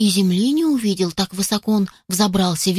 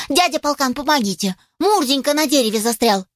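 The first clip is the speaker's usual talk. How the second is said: urgent puppy; 4 semitones higher than usual. Acted. Puppy begs yard dog for help.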